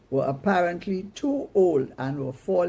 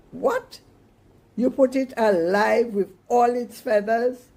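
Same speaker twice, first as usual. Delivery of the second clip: shocked shout, much higher and louder; 7 semitones higher, 6 dB louder than usual. Acted. Mama shrieks at Mikey over the live bird, loud and high. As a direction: shriek in disbelief. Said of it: "Mama shouted".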